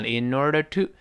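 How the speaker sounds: in order to tilted upward; rising in order to. Shown as a demonstration. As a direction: lift the tune through to. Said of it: "in order to扬上去".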